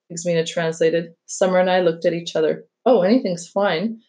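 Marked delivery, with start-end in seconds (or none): 2.9-4.0 polite, slightly slow reassurance; mild, courteous deference. Acted. Guest answers the babysitter about dinner, very politely. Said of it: "said very politely to Louisa".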